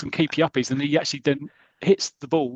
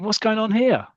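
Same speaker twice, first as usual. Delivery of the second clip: high, louder incredulous what's going on; baffled question; 9 semitones higher, 4 dB louder than usual. Retold or imitated. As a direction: sound utterly baffled at the circus. Bewildered manager at the circus.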